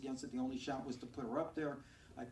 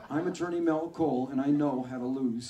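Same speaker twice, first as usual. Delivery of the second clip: loud, proud commercial sign-off; ad tagline; 8 dB louder than usual. Retold or imitated. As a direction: close the ad like a slick lawyer spot. Lawyer's own ad tagline.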